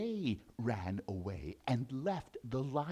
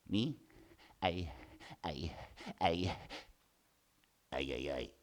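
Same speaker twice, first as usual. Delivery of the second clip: stammering mouse; 9 semitones lower, 6 dB quieter than usual. Acted.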